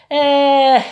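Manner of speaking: a long wistful "eh", high and loud; dreamy sigh. A narrator's reading. Peasant daydreaming about a causeway, dreamy sigh. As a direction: peasant sighing, dreaming of a shortcut. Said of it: "westchnął z rozmarzeniem chłop".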